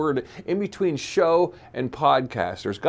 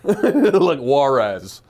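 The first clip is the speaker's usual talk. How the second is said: mock Spanish accent; 6 semitones lower, much slower than usual. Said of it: "questionably racist accent".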